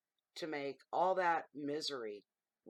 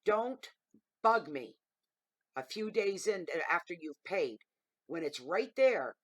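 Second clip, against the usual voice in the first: loud, higher blunt rant, slow at the end; 3 semitones higher, 8 dB louder than usual. Retold or imitated. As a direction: drop the politeness and let it rip. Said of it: "That's my polite way of saying".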